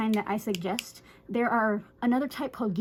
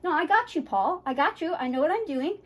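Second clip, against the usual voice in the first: higher-pitched reassurance; showing confidence; 5 semitones higher than usual. Shown as a demonstration. Groomer to her nervous dog, confident reassurance. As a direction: assure the dog you've got it handled. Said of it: "you can show confidence".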